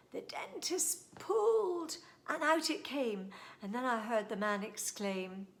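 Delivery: put-on lively, singsong reading of a rhyme for kids; storytime poem reading. A narrator's reading. Host reads a funny poem to young listeners, lively and singsong. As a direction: read it out like a bedtime poem to children.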